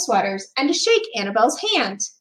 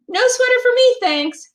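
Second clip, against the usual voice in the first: gruff refusal; 12 semitones higher, 5 dB louder than usual. A narrator's reading. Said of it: "said Mister Crabtree".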